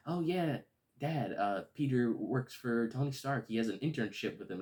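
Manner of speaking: chirpy daughter telling her dad; voicing Liz. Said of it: "She's like".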